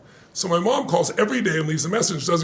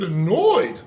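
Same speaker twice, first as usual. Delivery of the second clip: louder questioning echo, pitch rising at the end; incredulous echo; 4 dB louder than usual. Retold or imitated. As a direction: throw the word back in disbelief. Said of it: "the word annoyed annoyed me".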